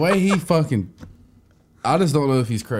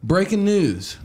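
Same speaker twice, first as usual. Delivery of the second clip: hushed anchor tease, no voice; whispered breaking news; 4 semitones higher, slower than usual. Pretend. Friend whispering a news opener as a joke. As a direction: whisper the headline. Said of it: "school for this shit".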